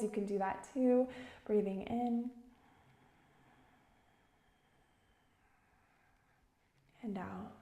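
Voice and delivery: calm, measured meditation guide; unhurried instruction, phrase by phrase; guided meditation. Real, not acted. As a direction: guide listeners gently with long pauses.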